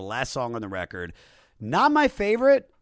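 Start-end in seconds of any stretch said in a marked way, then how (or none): 1.6-2.7 emphatic. Real, not acted. Exclaiming opinion.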